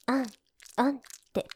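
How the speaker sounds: a mock feminine moan shown to him; half-mocking demonstration moan; demo moan. Shown as a demonstration. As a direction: model the moan she wants to hear. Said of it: "もっと女みたいに".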